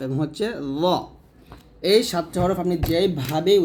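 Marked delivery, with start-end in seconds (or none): 0.8-0.8 "ল" as a heavy, rounded "zaw"; thick heavy Z. Shown as a demonstration. Teacher ending the thick-letter list, heavy Z. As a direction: say "ল" full and thick. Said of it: "মোটা হরফগুলো হলো".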